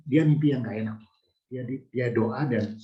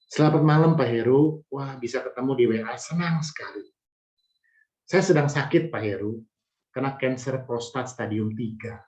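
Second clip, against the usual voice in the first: reading a message aloud. Shown as a demonstration. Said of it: "Ini saya bacakan ya".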